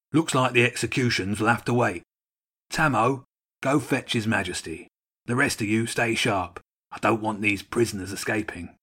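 lightly voiced soldier bird giving orders; commanding gull. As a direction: give orders as a gull in charge.

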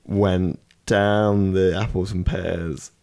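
dragged out like a grand film title; slow title read. Pretend. Friend pitching a made-up Disney film, slow and grand. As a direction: spell out each word slowly, savouring it.

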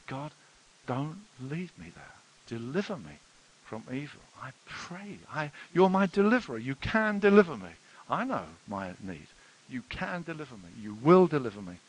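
earnest prayer, rising in fervour; model prayer. Shown as a demonstration. Preacher modelling a prayer for the church, earnest plea. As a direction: pray it aloud as an example. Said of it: "Do you pray it?".

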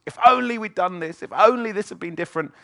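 regretful if onlys. Retold or imitated. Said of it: "She's full of if onlys".

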